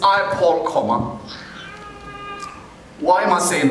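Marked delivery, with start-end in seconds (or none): 0.0-1.2 "I, Paul," then say the word "comma"; spoken comma. Shown as a demonstration. Preacher stresses the comma after "Paul" for the church. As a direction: stop on "Paul" and name the comma. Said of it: "the key thing here I want us to focus on".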